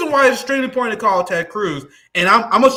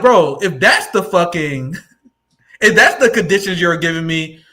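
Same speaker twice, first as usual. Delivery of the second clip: laughing retort; 5 semitones lower than usual. Retold or imitated. Host retells own retort, laughing.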